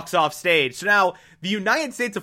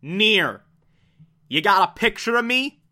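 mock-pleading Mello; 4 semitones higher than usual. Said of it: "and is like".

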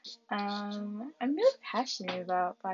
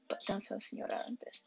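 hushed aside so the teacher won't hear; conspiratorial whisper; secret whisper; 6 dB quieter than usual. Pretend.

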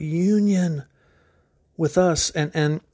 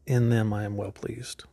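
whisper; 6 semitones lower, 5 dB quieter than usual. Acted. God's words echoed as whisper.

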